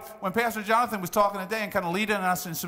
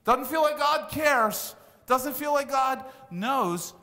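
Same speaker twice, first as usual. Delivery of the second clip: higher, slow lament; higher, slow complaining to God; plaintive complaint; 4 semitones higher, slower than usual. Retold or imitated. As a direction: voice the doubter's lament, slowly. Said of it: "has said something like that".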